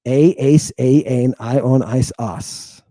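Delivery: rattled off by rote, fading to a murmur. Shown as a demonstration. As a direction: recite it like you could in your sleep. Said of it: "I can do that in my sleep".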